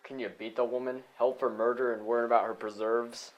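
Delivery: loud, incredulous scoff. Acted. Sheriff to the others about the woman's preserves, loud scoffing.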